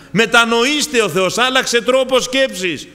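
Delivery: high-pitched call to repentance; crying out. Acted. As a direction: proclaim it as an urgent appeal. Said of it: "Και φωνάζει ο Θεός για μετάνοια".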